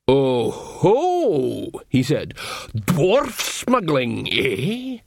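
slow, knowing troll accusation; lightly voiced sly troll; suspicious troll. A narrator's reading.

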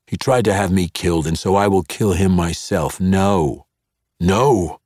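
fast, loud, rising heat; heated insistence. Acted. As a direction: insist with growing anger. Zaknafein insisting.

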